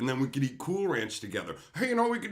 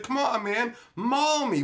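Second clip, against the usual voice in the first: mock taunting dare; 8 semitones higher, 3 dB louder than usual. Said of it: "kicked it in the ribs and said".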